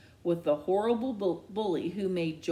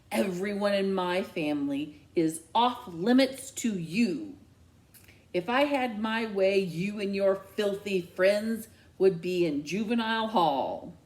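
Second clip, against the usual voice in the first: louder, hard scolding; angry mother; 4 dB louder than usual. Acted. Mom scolding the boy who bullied her son. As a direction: bite off every word.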